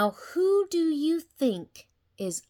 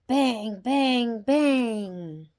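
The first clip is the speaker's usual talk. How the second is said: louder, punchy bangs; 6 dB louder, much slower than usual. Acted. Reading the gate sounds aloud, punchy. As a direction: hit each bang hard.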